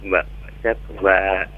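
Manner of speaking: stuffy nasal voice; talking through a blocked nose. Real, not acted. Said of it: "suaranya kayak bindeng ini".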